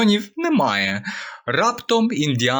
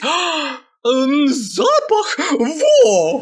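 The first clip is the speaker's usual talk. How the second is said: much higher, slow, loud, gushing praise; admiring; 13 semitones higher, 4 dB louder, much slower than usual. Acted. The hare delightedly praises the lion's smell. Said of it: "Заєць із захопленням".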